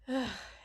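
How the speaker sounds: short exasperated sigh; embarrassed huff of breath. Acted. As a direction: sigh at your own silliness. Embarrassed by the silly nickname.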